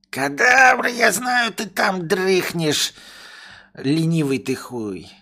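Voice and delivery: high, loud scolding; angry master shouting. Acted. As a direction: scold a lazy servant.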